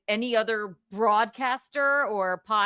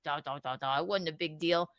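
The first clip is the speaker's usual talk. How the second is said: low, much softer dismissive mumble; mock shrug; 7 semitones lower, 6 dB quieter than usual. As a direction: brush it off, quiet and low. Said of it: "he's like".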